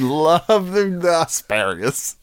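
hushed, breathy giggling aside; whispering. Real, not acted.

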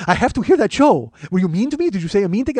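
high, loud impression of an insistent waxer. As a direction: demand answers in a put-on high voice. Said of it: "did an impression of you".

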